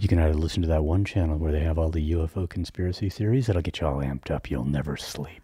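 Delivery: low, calm radio host voice; late night voice. Pretend. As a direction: ease into a mellow late-show tone. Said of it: "I'm just gonna do the late night voice".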